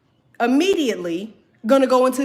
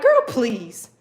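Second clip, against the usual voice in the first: mock grandma. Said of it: "Beloved ain't coming in there".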